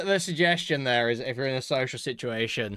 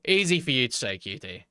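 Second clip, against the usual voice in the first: sarcastic. Real, not acted. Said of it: "It's w-, it's easy for you to say".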